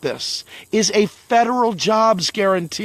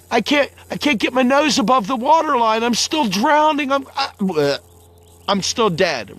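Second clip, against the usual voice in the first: mock drowning panic; 2 semitones higher than usual. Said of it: "you're like".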